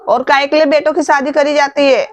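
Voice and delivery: loud, indignant outburst at the brother's wife; angry shouting. Acted. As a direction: shout it out, furious on mother's behalf. Daughter furious at her brother's wife. (गुस्से में ज़ोर से चिल्लाना)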